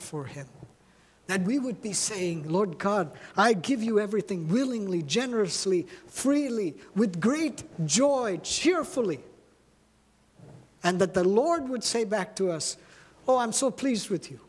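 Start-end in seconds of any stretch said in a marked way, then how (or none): 2.5-9.2 joyful giving prayer. Acted. 13.3-14.4 higher, beaming with approval; pleased smiling Lord. Retold or imitated. The Lord praising his faithful child, pleased and beaming. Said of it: "He smiles".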